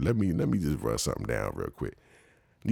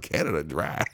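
baffled echo. Retold or imitated. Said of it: "I was like".

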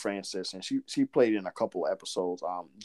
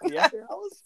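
performing Southern accent on request. Shown as a demonstration. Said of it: "I asked you to say it".

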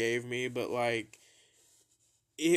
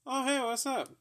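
mom's greeting; 13 semitones higher than usual. Retold or imitated. Mom greeting him casually.

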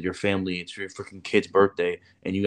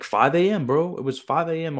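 incredulous emphasis; 9 semitones higher, 3 dB louder than usual. Retold or imitated. Up at 5am while on leave.

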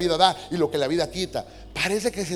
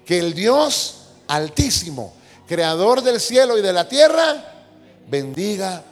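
preaching shout; 3 semitones higher, 9 dB louder, slower than usual. Acted. Preacher proclaiming the blessing to the church, shouting. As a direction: thunder it out slowly over the crowd.

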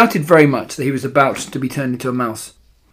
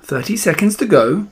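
witch's countdown call, pitched up; crying witch; 5 semitones higher than usual. A narrator's reading. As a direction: call it out theatrically. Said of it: "cried the Grand High Witch".

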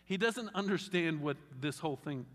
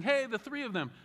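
higher, quick eager Peter; 8 semitones higher than usual. Retold or imitated. Peter blurting his plan to Jesus, high and eager. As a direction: Peter bursting in with his idea. Peter interrupted mid-sentence.

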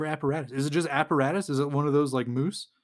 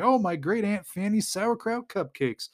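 imitating a delighted exclamation, high then slowing; mock-ecstatic, drawing out the last line; super excited; 5 semitones higher than usual. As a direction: playfully act out giddy disbelief at good luck. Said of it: "is super excited".

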